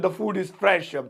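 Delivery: very slow, word by word; slow model sentence. Shown as a demonstration. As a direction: dictate it slowly for learners. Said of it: "slow model sentence".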